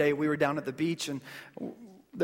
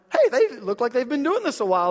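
higher, louder pleased exclamation; impressed surprise; 6 semitones higher, 6 dB louder than usual. Retold or imitated. Father watching his kids catch a wave, impressed surprise. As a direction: call it out, struck by their sudden skill. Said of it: "I'm looking at them like".

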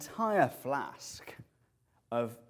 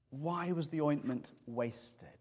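indignant outburst; 4 semitones higher than usual. Retold or imitated. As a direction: voice the disciples' outrage. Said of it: "They're infuriated".

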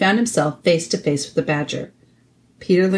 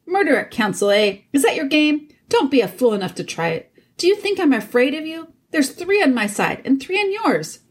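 angry dwarf; 8 semitones higher than usual. Acted. Dwarf threatens the king.

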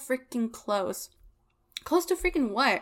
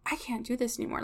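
quiet despair; 6 dB quieter, faster than usual. Retold or imitated. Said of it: "I woke up this morning and I was like".

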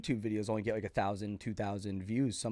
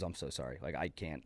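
much softer, lower, defeated murmur; quiet apology; 7 semitones lower, 8 dB quieter than usual. Retold or imitated. Imitating the agent who froze on stage, quiet and defeated. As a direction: let the words fade out like he's frozen up.

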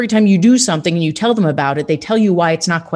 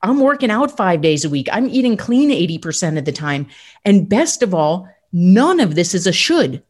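amazed future self. Retold or imitated. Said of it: "look back ... and say".

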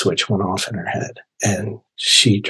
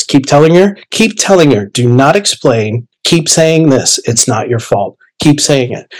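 urgent repeated orders, pitched up; imitated voice in the head, insisting; insistent inner voice; 4 semitones higher than usual. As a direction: press the command home, phrase after phrase. Inner voice urgently commands him.

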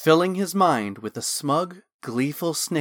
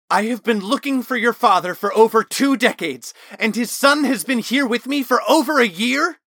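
furious, much higher and louder roar; bellowing; 10 semitones higher, 6 dB louder than usual. Acted. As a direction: bellow it at him in outrage. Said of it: "Talon bellowed".

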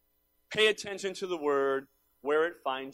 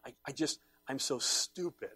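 self-berating mantra; 2 semitones lower, 9 dB quieter than usual. Acted. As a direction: beat yourself up under your breath, acted out. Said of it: "Some of you sit and it's like".

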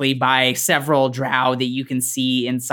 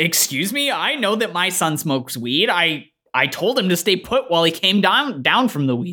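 lightly voiced game dad, offended; indignant dad; 4 semitones higher than usual. Dad defends his weed-smoking son, mildly indignant.

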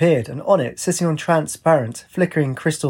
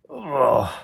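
drawn-out groan, falling in pitch. A narrator's reading. Wraith answers her from below, groaning. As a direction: groan a long "ugh". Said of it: "She heard an".

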